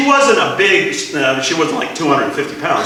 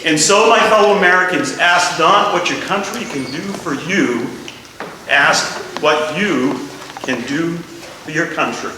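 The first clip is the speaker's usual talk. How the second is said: quoting Kennedy; 4 dB quieter than usual. Retold or imitated. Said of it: "Remember patriotism?".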